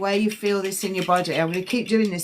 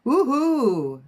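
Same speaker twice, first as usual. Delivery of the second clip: excited cheer; 6 semitones higher than usual. Real, not acted. Cheering a connection in a reading.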